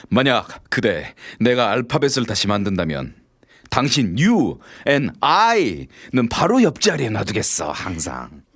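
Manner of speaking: slow, drawn-out smooth line; cheesy pickup line. Acted. Man delivering a greasy pickup line to a woman. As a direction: stretch it out like a crooner.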